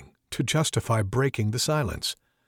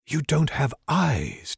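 drone; 3 semitones higher, slower than usual. Acted. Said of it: "Dakaria drones".

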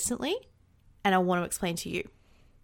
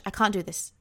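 mild despairing murmur. Retold or imitated. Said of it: "my brain just raced and it just went".

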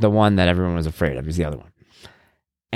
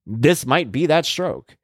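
slow mock dread; 4 semitones higher, much slower than usual. Mock-dramatic aside about stroke.

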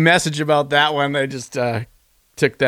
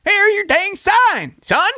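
much higher, slow Southern comic voice; Jeff Foxworthy impression; slower than usual. Quoting a comedian's catchphrase, in a high slow Southern voice. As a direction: pitch way up and drawl it slowly like a Southern comedian. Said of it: "talking like Jeff Foxworthy when his voice goes up an octave".

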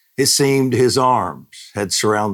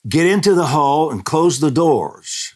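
loud, high urgent command to the family; retold shout; 10 semitones higher, 5 dB louder than usual. Husband ordering family into the hall, loud urgent shout. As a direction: call it out sharply over the storm. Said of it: "my husband shouted".

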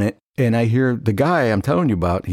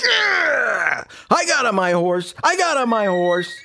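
high, gloating singsong; cocky outfielder answering the shortstop; smug comeback; 12 semitones higher, slower than usual. Retold or imitated. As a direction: rub it in. Smug reply after catch.

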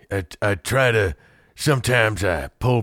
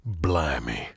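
low, softer attempt at a British accent; second try at British accent; 4 semitones lower, 5 dB quieter than usual. Shown as a demonstration. Host retrying his impression for the guest, attempted British accent. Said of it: "let me try one more time".

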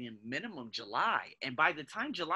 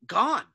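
a sudden loud, high echo of the word; a stunned, punchy one-word echo; emphatic echo; 7 semitones higher, 9 dB louder than usual. Acted. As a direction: hit Gone hard on its own. Company possibly gone, echoed.

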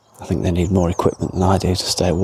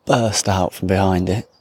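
normal talking voice

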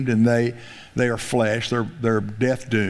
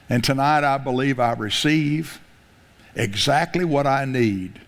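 leading a group prayer. Real, not acted. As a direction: lead the church through a prayer line by line. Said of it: "Let's say this together out loud".

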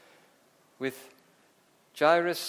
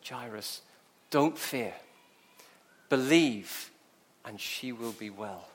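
measured words with long pauses; calm reassurance; 3 semitones lower than usual. Acted. Jesus looking straight at the grieving father, reassuring.

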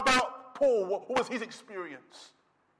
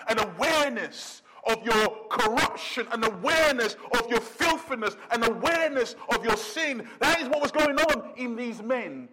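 insistent preaching; 3 dB louder than usual. Real, not acted.

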